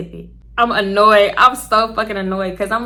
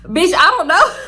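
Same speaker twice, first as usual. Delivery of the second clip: high, loud exasperated disbelief; incredulous; 8 semitones higher, 6 dB louder than usual. Retold or imitated. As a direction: throw up your hands in disbelief. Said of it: "me, I'm like".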